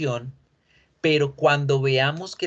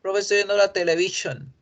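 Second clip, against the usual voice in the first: quick, higher mock student saying "televisión"; 5 semitones higher, faster than usual. Teacher imitates a student's wrong habit. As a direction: play the student with the Spanish "televisión". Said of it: "no van a decir nunca más televisión".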